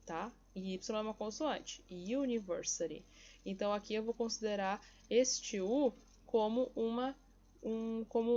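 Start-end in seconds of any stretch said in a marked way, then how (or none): 1.9-3.0 UNIVERSITY opened with "you-"; Y sound. Shown as a demonstration. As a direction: start UNIVERSITY on a consonant Y glide. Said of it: "vai ter som de Y".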